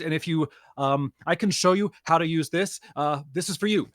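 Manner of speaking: a touch of nervous eagerness; eager helpful student. Acted. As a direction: ramble on helpfully, stumbling over the words.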